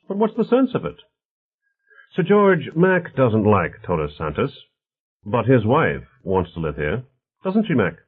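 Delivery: lively, mildly voiced character dialogue; affable host Bonner. Bonner talks politics with his guests, lightly voiced affable host.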